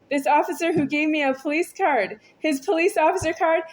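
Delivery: halting, stumbling over words; stuttering. Real, not acted. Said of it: "I'm stuttering right now".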